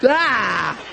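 exaggerated retch-like cry of disgust. Preacher revolted by his own words, mock-disgusted cry. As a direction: spit out a bad taste. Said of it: "I gotta get that out".

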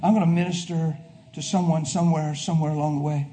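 a soft, intimate prayer to the Lord; quoted prayer. Retold or imitated. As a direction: pray it low and close. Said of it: "I say".

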